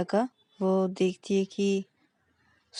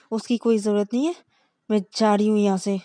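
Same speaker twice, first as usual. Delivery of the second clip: quick, louder brush-off; curt dismissal; 6 dB louder, faster than usual. Acted. Angry girlfriend refusing the ride. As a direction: cut her off and leave. Shreya storms off.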